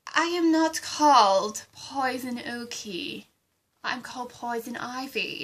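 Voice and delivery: mildly hammed-up offended villainess; indignant correction. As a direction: put her right, offended. Ivy corrects wrong name indignantly.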